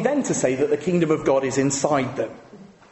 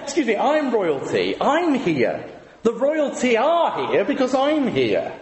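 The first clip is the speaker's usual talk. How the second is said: light royal-accent impression; mildly put-on accent of an affronted royal; Prince Charles accent; 3 semitones higher than usual. Prince correcting the guest who asked for royalty, in a mock royal accent. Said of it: "I shouldn't do the accent".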